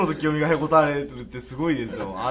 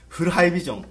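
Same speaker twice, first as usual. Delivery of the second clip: punchy ad slogan; CM catchphrase voice. Retold or imitated. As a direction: sell it like a TV ad. CM parody catchphrase.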